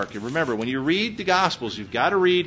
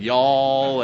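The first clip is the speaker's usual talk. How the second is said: Texas talk; 3 semitones lower, 4 dB louder than usual. Shown as a demonstration. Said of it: "Because I'm saying stuff like".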